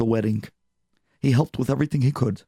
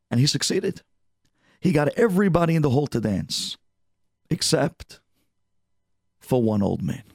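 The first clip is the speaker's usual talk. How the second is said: usual speaking voice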